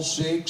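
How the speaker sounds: whistle the s in "Six"; whistled six. Shown as a demonstration. Texan six with a whistle, for the crowd. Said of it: "Let me hear that whistle".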